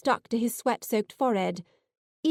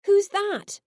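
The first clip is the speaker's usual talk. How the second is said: startled question; 11 semitones higher, 3 dB louder than usual. A narrator's reading. Startled waking brother sees stranger.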